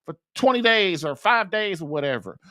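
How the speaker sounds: mildly angry husband's complaint; mock mad nagging. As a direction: imitate a husband griping about chores. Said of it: "sometimes they get mad".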